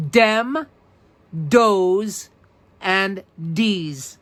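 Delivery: Brooklynese dem dees does with hard d; New York Brooklyn accent. Shown as a demonstration. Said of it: "the language known as Brooklynese".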